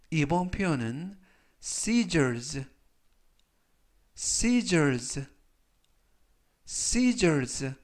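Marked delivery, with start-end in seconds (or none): 1.6-7.7 scissors with a buzzing z sound, not s; scissors pronunciation. Shown as a demonstration. Teacher drilling scissors for students, z sounds stressed. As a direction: model scissors with z sounds for learners. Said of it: "라고 발음하시면 되겠고요".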